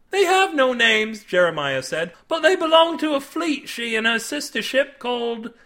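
high-pitched dramatic sailor voice; ominous storyteller. A narrator's reading. Jeremiah revealing the fleet to Cade, ominous. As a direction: build toward a dreadful name.

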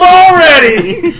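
cracking up mid-word; laughing. Real, not acted. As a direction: burst of high laughter. Laughing at derailed intro.

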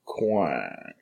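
low, soft quack through laughter; gay duck. Retold or imitated. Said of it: "my impression of a gay duck".

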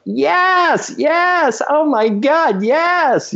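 high-pitched squeals of mock screaming excitement; crowd freaking out. Choreographer imitating everybody after the first rehearsal for a song, high excited squeals. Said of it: "everybody was going like".

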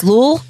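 "Lul" read as a single syllable; mocking "Lul" like a word; mock pronunciation. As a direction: say "Lul" as one short word, lul. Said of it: "French guy who kept texting me L O O L".

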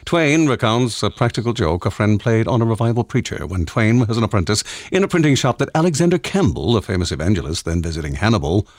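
lightly put-on announcer read, measured. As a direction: read it out like an announcer, slightly hammed-up. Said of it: "in an announcer voice".

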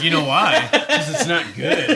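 high, slow mocking impression of a friend; imitating Juan. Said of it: "Juan's like".

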